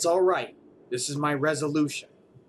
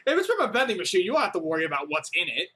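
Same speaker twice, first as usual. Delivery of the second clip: mocking repeat; faster than usual. Shown as a demonstration. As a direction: throw the line back, unbelieving. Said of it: "do you not understand how suspicious that sounds".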